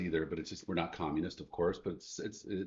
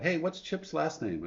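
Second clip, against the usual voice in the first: retold yell; 9 semitones higher, slower than usual. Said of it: "one of the moms yells out".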